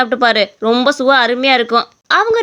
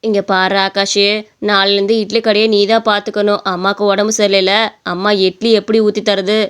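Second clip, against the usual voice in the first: lower, even motherly voice; instructing mother; 4 semitones lower than usual. Acted. Mother handing her son the idli shop, instructing. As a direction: hand over duties gently but firmly.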